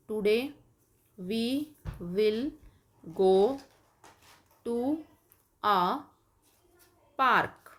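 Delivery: today I will go to a farm, very slowly with long pauses; slow dictation. Shown as a demonstration. Teacher dictating slowly while kids write. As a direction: dictate each word at writing speed. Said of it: "इसी तरह आप next बनाएंगे".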